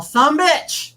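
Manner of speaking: high, loud mock holler; imitated yell. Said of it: "Melissa heard me yell".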